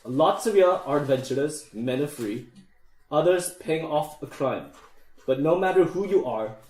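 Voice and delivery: lightly voiced dwarf king with a bad Scottish accent; deep booming king. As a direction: give a measured speech as a dwarf king rallying recruits. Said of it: "in a deep, booming voice".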